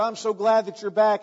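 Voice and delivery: glad pig father. Acted. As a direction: lightly act a father's happy greeting. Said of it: "And the father said".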